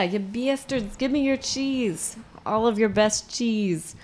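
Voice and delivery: slow put-on Boston accent. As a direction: demand cheese in a Boston accent. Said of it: "Boston accents for British".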